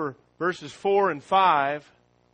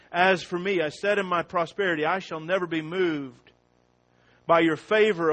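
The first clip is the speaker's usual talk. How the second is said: preached psalm; psalm reading; 2 semitones higher than usual. Acted. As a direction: proclaim the psalm with full force. Reads psalm as Christ's voice.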